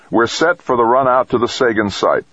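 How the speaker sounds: high, proud and pleased; crowing. A narrator's reading. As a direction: crow it with a beaming grin. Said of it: "Dex crowed, beaming with satisfaction".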